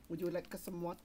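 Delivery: half-hearted put-on Asian accent. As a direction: tentatively try an Asian accent. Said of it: "Do your Asian".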